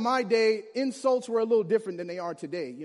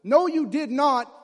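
slow, louder "No, you did not" with a high stressed "No"; drawn-out, louder shocked "No, you did not"; 4 semitones higher, 8 dB louder than usual. Retold or imitated. Boy recalling the shocked catchphrase, slow and louder. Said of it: "I was the one who was shocked".

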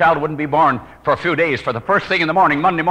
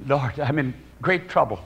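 silent prayer; 3 semitones lower, 6 dB quieter than usual. Retold or imitated. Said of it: "I said in my heart".

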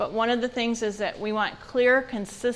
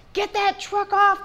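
high, loud, slowed parental bark; irritated snap; 11 semitones higher, 6 dB louder than usual. Retold or imitated. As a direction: snap at the kid like your patience just ran out. Irritated parent snapping at child.

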